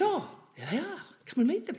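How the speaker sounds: lightly voiced investor. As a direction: point them out casually, lightly acted. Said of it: "And he goes".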